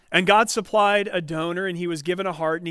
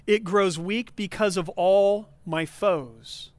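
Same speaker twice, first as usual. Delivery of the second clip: It grows weak because of all my foes, read slowly, weighing every word; slow, pointed reread; slower than usual. Shown as a demonstration. Pastor rereads the verse to his congregation, slow and pointed. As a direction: lean on "foes" slowly so they catch it. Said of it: "You could have missed it if you weren't paying close attention".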